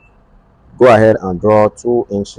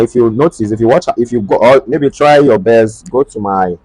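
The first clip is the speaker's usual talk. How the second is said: stumbling over words; halting false starts; stuttering; 2 semitones higher, 3 dB louder than usual. Real, not acted. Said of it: "sorry, I'm stuttering".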